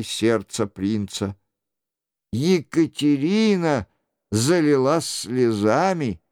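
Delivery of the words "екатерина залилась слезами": plain reading voice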